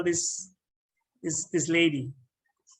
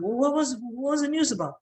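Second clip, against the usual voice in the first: higher, stammering mock panic; mild acted panic; 8 semitones higher than usual. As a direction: stumble over the first words, acting rising alarm. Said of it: "like, panic".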